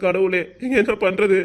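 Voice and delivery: slow, weeping plea to God; crying as he begs God to change her mind; tearful prayer. Acted. Father crying to God about his daughter, slow tearful plea. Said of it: "அப்பா, அழுகாதீங்கப்பா".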